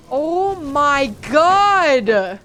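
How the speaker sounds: very slow, loud, high panicked scream; terrified scream. Real, not acted. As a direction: scream it out as the monster lunges. Ambushed in game.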